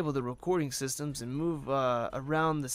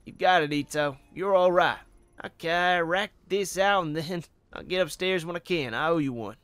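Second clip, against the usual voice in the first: louder, hearty Southern detective; Southern accent; 4 semitones higher, 6 dB louder than usual. Acted. Officer grateful to Ito for the favor, Southern accent. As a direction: thank them in a big Southern accent. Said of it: "Southern accent".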